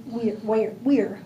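"Weir" with a W sound and the vowel of "here"; pronunciation demo. Shown as a demonstration. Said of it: "her blog says you pronounce it".

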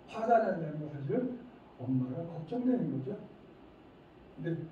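usual speaking voice

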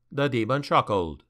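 usual speaking voice

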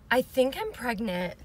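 laughing disbelief. Real, not acted. Telling camera she's pregnant.

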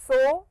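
"so" drawn out slowly; "so" with a stretched vowel; long vowel. Shown as a demonstration. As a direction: hold the O in "so" long. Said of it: "so long sound".

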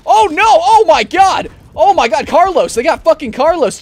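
high, loud cry of alarm; panicked yell. Real, not acted. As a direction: shout in real panic for your teammate. Teammate Carlos gets eaten.

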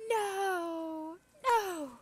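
high, loud no, no; loud high protest; alarmed shout. Real, not acted. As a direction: try to stop it with your voice. Character in danger.

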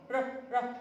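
"ر" as a short vowelless rolled r; sukoon sound. Shown as a demonstration. Teacher showing kindergartners the sukoon, "ر" said short without a vowel. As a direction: stop "ر" with no vowel after it. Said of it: "تنطق ر".

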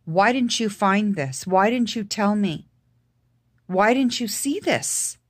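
slow, pressing accusing questions; retold anger. Confronting the doctor who missed her brother's cancer, slow anger. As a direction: lean on didn't, holding back fury. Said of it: "I was angry".

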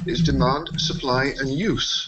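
"use" set apart at the end with a pitch swell; stress on USE. Real, not acted. Speaker correcting demand-supply divide, stress on "use". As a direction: list the three, landing firmly on "use". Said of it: "With the emphasis on use".

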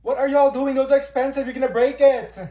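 high, loud alarmed scolding. Acted. Student shouting at friends trying on her glasses. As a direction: yell at them to stop before it breaks.

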